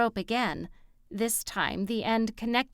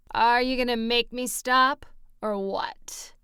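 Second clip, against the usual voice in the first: challenging; 3 semitones higher, 4 dB louder than usual. A narrator's reading. Jonas squares up.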